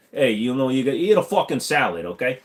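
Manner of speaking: lightly done Boston tough guy; a hint of a Boston Tony hassling someone; Boston accent. Shown as a demonstration. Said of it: "Uh, Boston".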